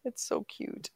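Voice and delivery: high, slow cooing voice. Real, not acted. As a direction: coo over a puppy. Cooing over dog.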